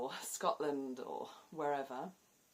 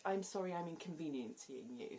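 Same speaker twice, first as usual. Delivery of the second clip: apologetic meaning. Retold or imitated. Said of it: "It's like".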